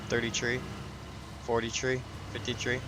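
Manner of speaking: "tree" with a t in each number; Irish tree. Retold or imitated. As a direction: count "thirty tree" with a t sound. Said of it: "when they say three".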